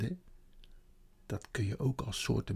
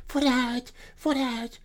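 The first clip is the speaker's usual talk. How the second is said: high, louder beaver cry; beaver calling; 14 semitones higher, 5 dB louder, much slower than usual. Acted. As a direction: call them out, nearly dancing with joy. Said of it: "riep meneer Bever".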